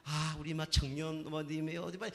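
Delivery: mildly imitated meek, kindly evangelist; retold with a touch of gentle politeness, evenly pitched; gentle, humble. Church lady first greeting the young visitor, mildly imitated gentle manner. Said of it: "온유한 마음으로 겸손한 마음으로".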